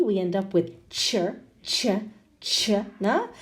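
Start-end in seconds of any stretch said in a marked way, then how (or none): 0.9-2.7 "ch" with a short schwa, as "chuh"; isolated "cher, chuh" syllable demo; TURE ending. Shown as a demonstration. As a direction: give "ch" as the weak syllable "cher". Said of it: "when we have the T U R E".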